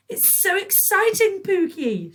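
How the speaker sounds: high, loud, slow gleeful squeal; gleeful shriek. A narrator's reading. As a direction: shriek with delight. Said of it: "shrieked Patricia".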